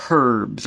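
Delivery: Herbs said as "erbs", H dropped on purpose; defiant silent H. Shown as a demonstration. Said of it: "all right, I said it".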